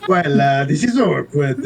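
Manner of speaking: attempted Greek accent slipping into Italian; botched Greek accent. Player tries the Greek man's line, botched Greek-Italian accent. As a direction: have a light go at Greek, land on Italian. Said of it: "that was Italian".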